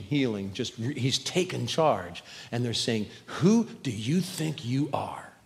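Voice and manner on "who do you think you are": hushed challenge. Acted. Accusers confronting Jesus, hushed.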